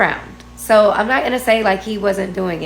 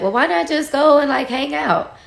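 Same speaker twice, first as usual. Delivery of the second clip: higher, light persuasive fatherly tone; coaxing dad, mildly voiced; 4 semitones higher than usual. Dad urging daughter to just hang out, mild coaxing. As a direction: gently nudge her to go out. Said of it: "my dad is like".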